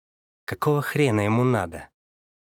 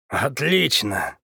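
pleased; much slower than usual. Acted. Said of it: "обрадовался он".

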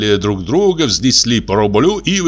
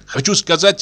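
plain reading voice

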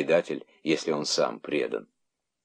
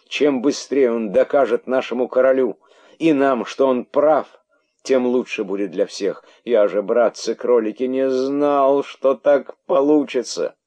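high, loud, insistent self-defence; pleading excuse; 7 semitones higher, 5 dB louder than usual. A narrator's reading. Herald excusing himself to brother rabbits, pleading. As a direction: plead your case in a raised voice.

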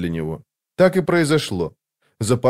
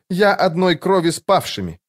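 higher-pitched ceremonial declaration; solemn proclamation; 8 semitones higher than usual. A narrator's reading. Huntress proclaims kinship with the fallen, solemn. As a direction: proclaim it like an oath. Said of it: "провозгласила она".

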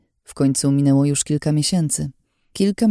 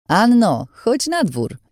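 calling out high and loud across the yard; 8 semitones higher, slower than usual. A narrator's reading. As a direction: shout to her outside, playful. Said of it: "krzyknął głośno". (głośne, radosne wołanie)

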